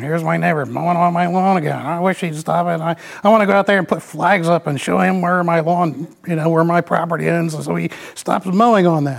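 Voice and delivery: a mild, put-upon grumble; fussing complaint. Retold or imitated. Husband fussing to his wife about the neighbor, mild grumbling. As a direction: complain like a mildly aggrieved homeowner. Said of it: "I go and fuss to Sharon".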